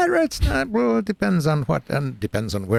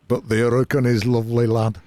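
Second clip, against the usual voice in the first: put-on light Yorkshire accent. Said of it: "that's Yorkshire".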